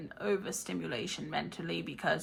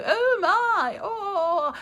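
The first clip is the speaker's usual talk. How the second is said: laughing; 12 semitones higher, 5 dB louder, much slower than usual. Real, not acted. Wizard laughs at lost time.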